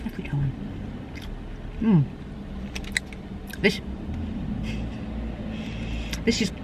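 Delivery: chewing between words; muffled eating speech; mouth full of food. Real, not acted. Seen 3: Bit pastry earlier; lips closed, jaw working while speaking briefly.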